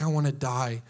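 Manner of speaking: mope like someone wallowing on the couch; sulking self-pity. Retold or imitated. A sulking believer moaning to God, low and mopey. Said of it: "and you're just like".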